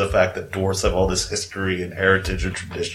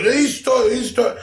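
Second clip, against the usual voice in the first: orcs shouting; 12 semitones higher than usual. Acted. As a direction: yell it as a startled orc. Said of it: "They're like".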